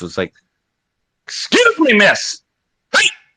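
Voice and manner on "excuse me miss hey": put-on loud, very high, guttural shriek. Retelling calling out to the waitress across a restaurant: retelling own shrieking loud call. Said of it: "my voice was just so shrieking and so loud".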